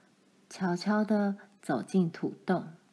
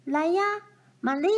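mild mock shout; 7 semitones higher, faster than usual. A narrator's reading. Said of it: "他大叫道".

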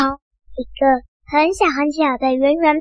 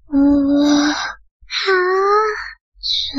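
tired whimper; much slower than usual. Acted. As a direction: whimper like aching all over. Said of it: "乌龟说".

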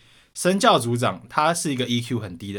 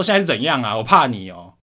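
loud mocking challenge to the teacher; defiant retort; 2 semitones higher, 4 dB louder than usual. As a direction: talk back to the teacher, cocky and loud. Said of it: "我就说". (冲着老师大声呛回去)

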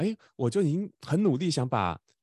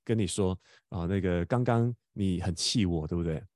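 put-on a father calmly soothing his crying boy; gentle father; 4 semitones lower than usual. Father gently soothes upset son.

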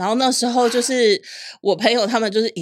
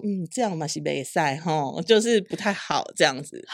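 coldly; 3 semitones lower, 4 dB quieter than usual. Retold or imitated. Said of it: "我妈就冷冷说".

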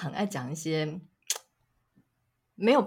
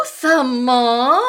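shocked; 5 semitones higher, 12 dB louder than usual. Retold or imitated. Shocked at husband's reply.

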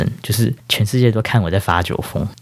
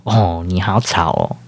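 impatient; slower than usual. Retold or imitated. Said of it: "很没有耐心的说".

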